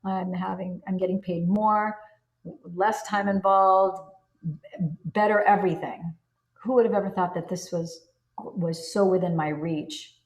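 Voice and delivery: excited news to a friend. Pretend. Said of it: "having a conversation with your best friend".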